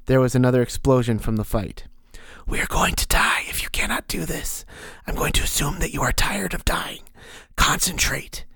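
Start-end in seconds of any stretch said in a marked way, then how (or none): 2.5-8.5 eerie unvoiced whisper of a hidden mentor; whispering inner voice. The mysterious voice counsels Ank, eerie whisper. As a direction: breathe it like a voice inside his skull.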